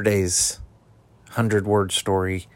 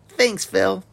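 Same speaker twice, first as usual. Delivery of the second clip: news anchor; 10 semitones higher, 5 dB louder than usual. Acted.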